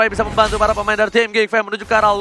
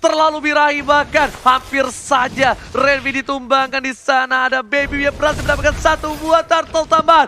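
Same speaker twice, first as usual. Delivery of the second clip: excited play-by-play; 6 semitones higher than usual. Real, not acted. Caster calling a tense fight.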